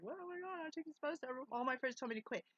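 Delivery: a squeaky put-on voice, playing herself; mock high voice. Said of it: "You're like".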